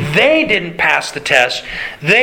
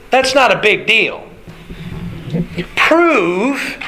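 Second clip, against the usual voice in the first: raised, goading challenge, slowing on the dare; a lightly voiced mocking devil; taunting tempter; 4 semitones higher than usual. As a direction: dare him to prove it, pitched higher.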